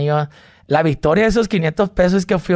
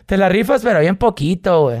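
mock faint praise; 5 semitones higher than usual.

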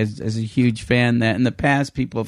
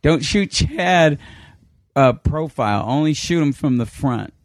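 deliberate instruction; 3 semitones higher than usual. Retold or imitated. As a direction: space out each word as a directive. Manager's instruction, retold.

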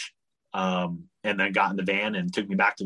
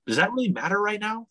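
much higher, incredulous comeback; exasperated retort; 12 semitones higher than usual. Retold or imitated. Traveler challenging the embassy worker's questions, exasperated. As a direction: push back in retold exasperation.

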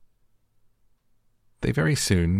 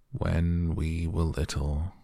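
calmer, a little sobbing; slower than usual. Acted. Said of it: "more calmly, though still sobbing a little".

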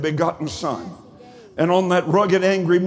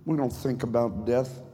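hushed sermon; 5 semitones lower, 7 dB quieter than usual. Acted. Sermon drops to a hush.

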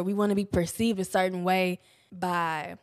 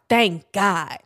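louder, relieved mother voice; relieved mom; 5 dB louder than usual. Retold or imitated. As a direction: mimic mom's sigh of relief. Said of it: "she was like".

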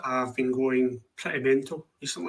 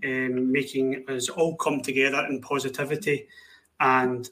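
dry mock-cheerful positivity; sarcastic. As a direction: say it sarcastically, fake upbeat. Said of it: "that is sarcasm".

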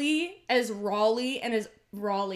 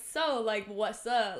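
talking to the gays; slower than usual. Acted. Podcaster demonstrating her tone with gay women, casually cool. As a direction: play it cool and understated. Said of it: "when I'm talking to the gays".

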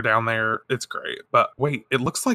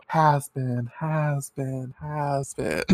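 echo; 2 semitones higher, 5 dB quieter, much slower than usual. A narrator's reading. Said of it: "hears an echo of".

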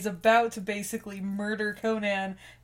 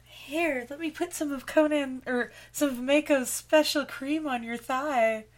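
creepy thief voice; 3 semitones higher than usual. Retold or imitated.

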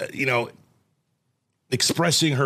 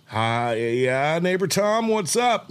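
rising mock-friendly hello; acted phone hello; forced cheerful greeting; 5 semitones higher, much slower than usual. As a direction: greet the neighbor, pitch climbing as you go. Acted call, forced cheer to neighbor.

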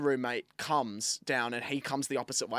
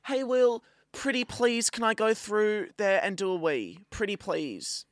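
high, wheedling pretty-please; sweet pleading; 8 semitones higher, slower than usual. Retold or imitated. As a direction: mimic a sweetly begging partygoer, pitched up. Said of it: "she's lovely to start off with".

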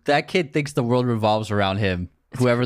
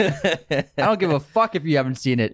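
laughing; 4 semitones higher than usual. Real, not acted. Laughing rant about entitled commenter.

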